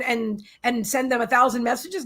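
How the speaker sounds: ordinary delivery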